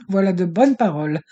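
a furious snicker through the words; mocking, seething compliment; sneering. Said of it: "ricana Piebald, jaune de rage".

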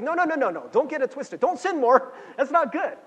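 Paul's emphatic no. Retold or imitated. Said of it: "He's like".

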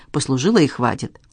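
usual speaking voice

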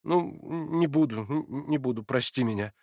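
shrinking back, apologetic; timid. A narrator's reading. Alyosha abashed under Natasha's reproachful look, timid. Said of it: "тотчас оробел".

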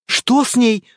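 sharp frightened cry; cry of alarm. Acted. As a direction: gasp it out in fear. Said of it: "вскрикнула пожилая дама". (испуганный вскрик пожилой дамы)

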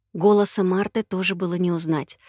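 plain reading voice

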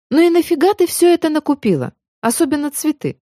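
высокий удивлённый упрёк; поддразни её за покупки; ворчливая подруга. A narrator's reading. Сестра ворчит на покупки. (насмешливый упрёк)

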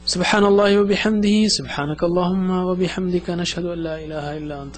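rapid, run-together recitation of the closing dua; closing prayer. Acted. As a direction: rattle off the closing prayer as a memorised formula.

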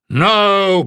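roar. A narrator's reading. Bada refuses Jasmine's plea with a roar. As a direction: bark a flat refusal. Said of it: "Bada roared".

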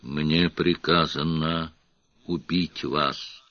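slow, soft, hollow menace; eerie creature voice. A narrator's reading. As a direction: speak like something not human. Faceless hooded creature speaks.

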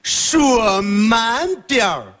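foreigner speaking mandarin. Retold or imitated. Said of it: "这回老外呢".

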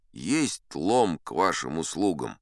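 slow, muffled voice from under the coal pile; a lightly muffled, unhurried reply. Retold or imitated. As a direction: speak hollow and muffled, as if buried. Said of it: "кто-то глухо так".

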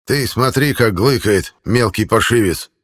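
a crotchety old man mocking; creaky old man voice. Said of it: "вновь раздался старческий голос".

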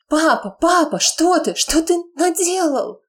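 put-on high, shocked girl's cry; a daughter's voice breaking in horror at what father did; horrified daughter. Daughter crying out to her father in horror.

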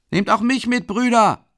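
high, loud eager call. A narrator's reading. Young lad in the crowd asking to ride along, calling out. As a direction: call out to join in. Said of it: "ruft ein Bursche aus der Menge".

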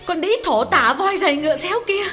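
high-pitched female voice, loud and raging; wife's furious high-voiced rant; furious tirade. A narrator's reading. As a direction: scream abuse at the husband's lover in a wife's high voice. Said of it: "những lời thịnh nộ chưa từng thấy".

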